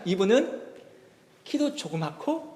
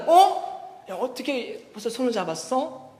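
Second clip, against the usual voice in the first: startled; 5 semitones higher, slower than usual. Retold or imitated. Pastor startled seeing the couple holding hands. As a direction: gasp in disbelief. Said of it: "깜짝 놀라".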